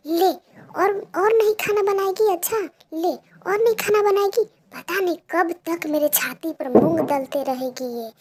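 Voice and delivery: loud, high furious taunting; angry mother. Acted. Mother kicking Pinky and taunting her, furious. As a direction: spit the words while kicking her.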